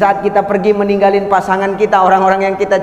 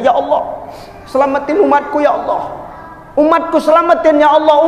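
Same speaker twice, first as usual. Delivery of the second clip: pleading prayer; 6 semitones higher than usual. Acted. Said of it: "Rasul nangis sejadi-jadinya".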